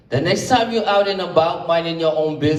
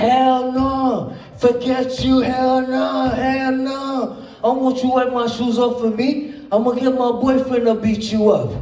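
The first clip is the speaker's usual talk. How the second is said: put-on higher, brash Brooklyn girlfriend yelling at a big stranger; sassy high-pitched Brooklyn girl telling him off; tough Brooklyn girlfriend; 5 semitones higher than usual. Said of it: "You know she from Brooklyn".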